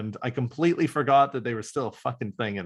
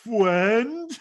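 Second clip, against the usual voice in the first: puzzled question; 10 semitones higher, 5 dB louder than usual. Retold or imitated. Quoting Skuld, puzzled.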